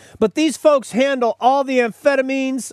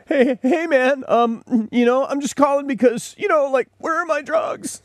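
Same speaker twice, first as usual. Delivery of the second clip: pitched-up laid-back caller voice; a mellow guy calling about his meds, voice up high; stoner caller; 4 semitones higher than usual. Retold or imitated. Host acts a stoner customer phoning in, high and laid-back.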